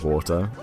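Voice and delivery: British "water", WAW-tuh with no final r; British accent. Shown as a demonstration. Streamer on own accent, "water" said British as WAW-tuh. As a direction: say "water" British, crisp t, r dropped. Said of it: "with a British accent".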